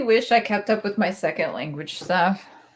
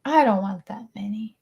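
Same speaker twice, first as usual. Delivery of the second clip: whispering. Pretend. Repeating joke in whisper.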